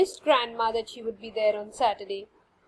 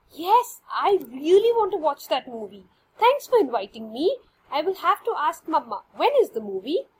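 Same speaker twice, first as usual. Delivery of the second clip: put-on eager girl; 3 semitones higher, 4 dB louder than usual. Tanya eager on phone.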